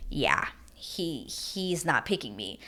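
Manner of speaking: hushed, low, slow imitated resignation; quiet realization. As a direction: act out her sinking realization, softly. Voicing her sinking realization.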